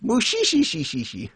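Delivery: high, drawn-out laughing "shishishi"; string out the shi's like an anime laugh; slow, high-pitched mock cackle; cartoon villain laugh. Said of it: "sounds like a One Piece laugh".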